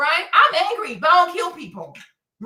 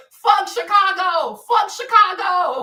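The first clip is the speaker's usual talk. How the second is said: slow defiant dismissal; 4 semitones higher, 4 dB louder, slower than usual. Real, not acted.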